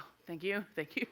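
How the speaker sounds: soft, small grateful voice; meek thanks. Retold or imitated. Woman thanks officer for letting her go, meek and hushed.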